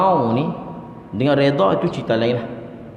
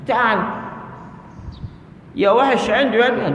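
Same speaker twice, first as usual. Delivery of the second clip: Arab calling his camel; 5 semitones higher, slower than usual. Retold or imitated. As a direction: shout for the camel to come. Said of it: "Tuan dia cakap Arab dengan dia". (tuan Arab memanggil untanya dengan laungan kuat)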